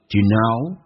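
"Do you know" with "Do you" squeezed to "d'ye"; "Do you know" run together as "d'ye know"; quick, weakened. Shown as a demonstration. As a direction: reduce "Do you" and land on "know". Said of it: "速度很快".

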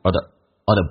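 "are the" reduced to "er-the" on a falling tone; "are the" with an r-coloured schwa, falling; weakened, falling tone. Shown as a demonstration. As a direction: let "are the" drop, unstressed and weak. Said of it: "降调读".

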